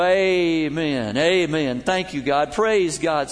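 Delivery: loud hammed-up amens of an excited worshipper; mock loud amens. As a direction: shout the amens like the eager man. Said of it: "he'd go".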